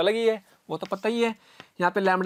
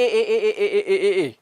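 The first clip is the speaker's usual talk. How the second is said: ए eight times a second, run quickly together; rapid-fire repetition; much slower than usual. Shown as a demonstration. Teacher showing students eight ए sounds a second, rushed. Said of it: "इतनी fast बोलना पड़ रहा".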